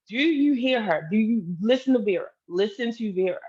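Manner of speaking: exasperated appeal, pressing each phrase; retold urgent appeal. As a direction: replay pleading with him to listen. Retells pleading with him over daughter.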